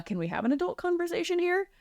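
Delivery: high, pointed exasperation; exasperated. Real, not acted. Speaker pushes back on advice to make the partner do everything, exasperated. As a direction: call out the advice with disbelief.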